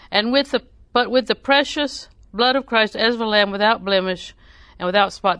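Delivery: scripture reading. Acted. Preacher reading First Peter to the congregation, proclaiming. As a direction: proclaim the verse to the church.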